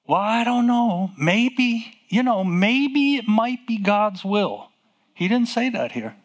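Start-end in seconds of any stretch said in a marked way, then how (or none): 0.1-4.7 lightly voiced doubtful churchgoer, a little higher; doubting church. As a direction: mimic a church that isn't sure. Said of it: "That's what the church is today".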